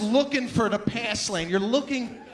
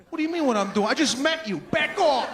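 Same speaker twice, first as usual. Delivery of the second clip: half-laughing mock brush-off, louder; annoyed rebuff; 3 semitones higher, 5 dB louder than usual. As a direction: push them away with a laughing snap. Annoyed reply to text.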